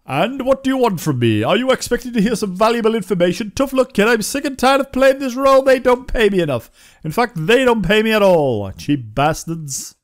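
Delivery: lightly voiced sour old townsman; grumpy NPC. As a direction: play the fed-up NPC who's done with his role.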